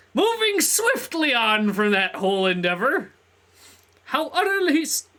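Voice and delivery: loud, theatrical announcer-like reading; grand character voice. Acted. Reads game figure aloud in grand voice.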